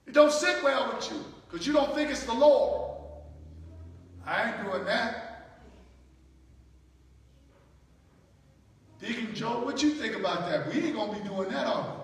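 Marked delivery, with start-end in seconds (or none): 4.2-11.9 low muttered gossip to a deacon; lower, softer sly whisper-like grumble; grumbling aside. Acted. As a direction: lean in and grumble conspiratorially. Preacher voices grumbling churchgoer.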